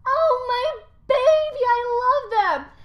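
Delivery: high, loud cooing mother; doting mother. Retold or imitated. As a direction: coo over the baby. Rhea voiced doting.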